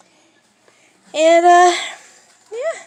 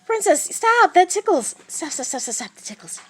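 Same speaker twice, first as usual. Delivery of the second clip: laughing; 7 semitones higher, 7 dB louder than usual. Real, not acted. Cat tickling her, laughing.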